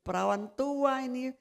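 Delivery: imitating a petty rant with a laugh at the end; mock grumbling. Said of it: "sampai saya juga ngoceh-ngoceh".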